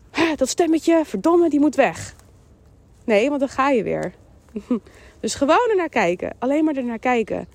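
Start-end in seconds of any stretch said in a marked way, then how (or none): 0.1-2.1 acted exasperation. Acts out judging the inner voice.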